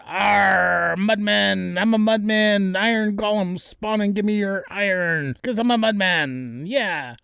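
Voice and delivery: lightly voiced gruff warrior yelling out; hammed-up battle cry of a mud statue. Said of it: "He's yelling out".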